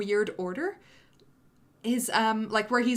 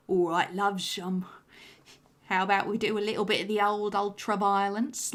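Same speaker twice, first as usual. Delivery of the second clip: Alex DeLarge impression. Creator showing fans the villain voice he wanted, light Cockney Alex impression. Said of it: "I really wanted Scourge to sound like Alex DeLarge".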